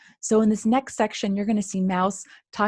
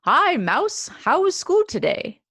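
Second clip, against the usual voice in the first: high, cheery grandpa greeting; 8 semitones higher, 4 dB louder, slower than usual. Acted. Grandpa picking Mouse up from school, cheerful. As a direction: greet her like a happy grandpa.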